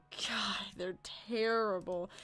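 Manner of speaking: slow whispered aside about the neighbours. Real, not acted. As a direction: breathe it out, barely voiced, slowly.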